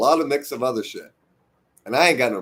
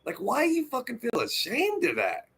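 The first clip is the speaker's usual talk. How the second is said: higher, pleading why you; retold plea; 9 semitones higher than usual. Telling the Russian cook, higher and pleading. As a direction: urge her not to be ashamed. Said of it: "I'm like".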